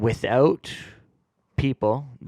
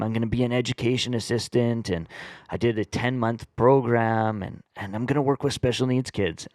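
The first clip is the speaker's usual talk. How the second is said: stoner voice. Retold or imitated. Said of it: "I love the voice".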